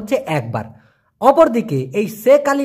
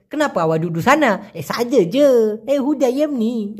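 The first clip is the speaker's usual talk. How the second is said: coquettish. Retold or imitated. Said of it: "আল্লাদি আল্লাদি করে বলে".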